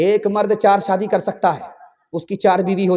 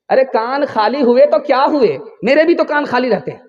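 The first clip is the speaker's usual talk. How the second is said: mildly indignant husband, pitched up; raised-voice comeback to the wife; indignant retort; 4 semitones higher, 3 dB louder than usual. Acted. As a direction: protest as if it's obvious. Husband retorting to wife's hint.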